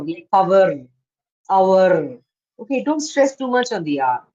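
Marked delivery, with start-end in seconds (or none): 0.3-2.2 "power" and "our" ending in hard r; over-pronounced R. Shown as a demonstration. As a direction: lean on the final r of "power" and "our". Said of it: "don't say R".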